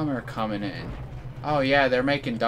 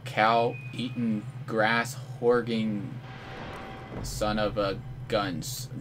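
slow, drawn-out silly name-calling; slow mock insult; 5 dB quieter, much slower than usual. Real, not acted. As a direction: savor each silly insult word.

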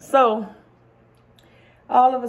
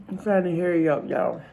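hurried, mouth full; 4 semitones lower, 4 dB quieter than usual. Real, not acted. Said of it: "See if I can eat it".

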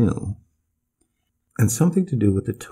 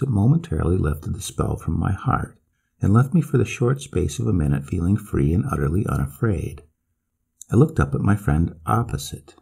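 ordinary delivery

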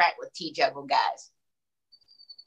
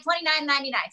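higher, punchier price plug; infomercial pitch; 4 semitones higher, faster than usual. Pretend. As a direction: push the price like a TV ad. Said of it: "Should I say it again".

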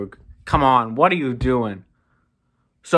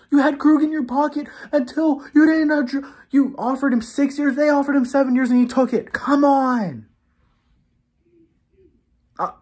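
higher-pitched, heated complaint; raging; 6 semitones higher than usual. Real, not acted. Fan raging at the front office over Krug, angry. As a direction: keep hammering the GM's mistakes. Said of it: "I'm really raging right now".

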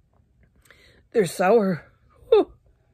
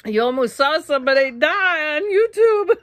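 higher, louder, laughing through words; 10 semitones higher, 7 dB louder than usual. Real, not acted. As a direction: laugh while telling it. Laughing about nearly choking.

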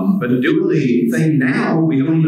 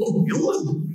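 Goofy laugh; 3 dB quieter than usual. Shown as a demonstration. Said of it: "the way I do it is".

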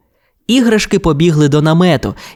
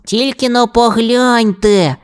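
high, drawn-out cry of wonder; exclaiming; 9 semitones higher, slower than usual. A narrator's reading. Toy points friends to the night sky, slow high exclamation. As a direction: stretch it out in awe, pitched up. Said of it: "вигукнув Ріжок".

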